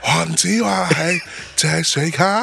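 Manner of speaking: lightly imitated slow singer voice; impression of a singer. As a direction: drawl it slowly like a pop star. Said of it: "你用郭富城学，说这句话".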